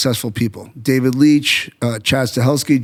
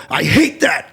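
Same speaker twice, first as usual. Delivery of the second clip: mildly emphatic, higher-pitched objection; 5 semitones higher, slower than usual. Acted. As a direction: demonstrate a blunt rejection, pitched up. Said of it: "when I'm emphatic and I go".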